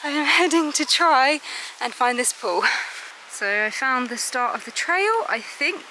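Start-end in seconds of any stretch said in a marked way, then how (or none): 0.0-2.6 winded, catching breath; breathless walking uphill. Real, not acted. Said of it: "sorry, I'm out of breath".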